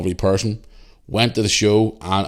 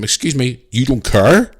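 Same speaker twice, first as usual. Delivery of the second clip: incredulous; 4 semitones higher, 4 dB louder, slower than usual. Retold or imitated. Arguing with rude supervisor.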